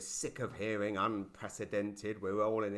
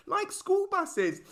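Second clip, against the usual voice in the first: drawn-out punchline; 5 dB louder, much slower than usual. Acted.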